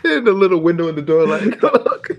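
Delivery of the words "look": laughing mock call. Mimicking kids pointing through window.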